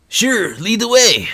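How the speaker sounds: put-on old man voice. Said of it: "That sounds wildly different than it did".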